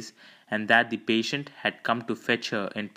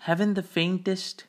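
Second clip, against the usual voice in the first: light, higher-pitched nonchalance; nonchalant; 9 semitones higher than usual. Acted. Lord Peter deflecting the eager nurse's question, nonchalant. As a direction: toss it off as if unconcerned. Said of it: "he replied nonchalantly".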